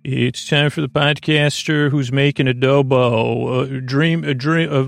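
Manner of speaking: slow, grand showman intro; announcer voice. Acted. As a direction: roll it out like a ringmaster.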